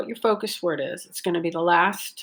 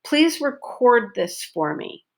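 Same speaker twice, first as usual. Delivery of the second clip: "record" as a verb, long O in the stressed second syllable; 4 semitones higher than usual. Shown as a demonstration. Teacher models the verb in a request, stress on the end of "record". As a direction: lean on the "cord" of "record". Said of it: "stress is on syllable number two".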